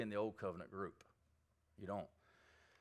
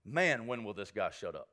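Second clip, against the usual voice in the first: mock impatient thought; 3 semitones lower, 5 dB louder than usual. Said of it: "that you are thinking".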